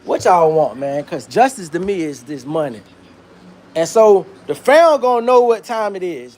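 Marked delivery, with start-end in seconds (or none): 0.0-2.8 low, hushed mock lawyer pitch; imitating Ben Crump. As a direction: murmur it like a slick lawyer closing a deal. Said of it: "Ben Crump done already told the fam".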